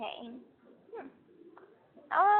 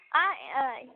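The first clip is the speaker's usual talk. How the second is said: imitating Texan Doctor Phil; 3 semitones higher than usual. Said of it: "He really does have whatever that accent is".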